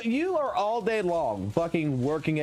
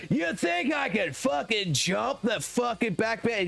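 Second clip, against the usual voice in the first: put-on slow hollering drunk redneck; mock redneck yell; 4 semitones higher than usual. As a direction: shout it like a drunk guy eyeing his lifted truck. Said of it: "redneck son of a bitches".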